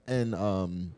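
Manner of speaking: talking through a burp; words cut by a burp. Real, not acted. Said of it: "This nigga burped in the mic".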